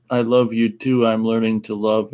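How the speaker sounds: stiff robotic android reading. Acted. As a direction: sound like a learning robot. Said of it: "he says with the robot voice".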